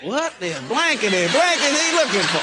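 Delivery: high, swooping grumble; hammed-up baffled irritation; mock exasperation. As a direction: imitate a woken camper complaining. Acting grumpy camper leaving tent.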